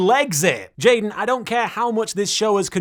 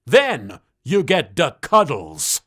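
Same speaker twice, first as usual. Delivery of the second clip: a touch of a mobster drawl, slow at the end; hint of a Scarface impression; Scarface-style gangster cat; 2 semitones lower than usual. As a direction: lay out the plan like a crime boss. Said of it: "Just call me Pra Face".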